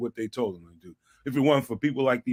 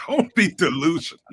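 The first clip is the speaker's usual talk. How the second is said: laughing; 4 semitones higher than usual. Real, not acted. Laughing repeat of uncle's saying.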